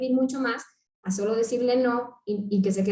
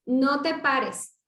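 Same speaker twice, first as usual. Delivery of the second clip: slow demo; much slower than usual. Shown as a demonstration. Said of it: "hagamos un ejercicio mental".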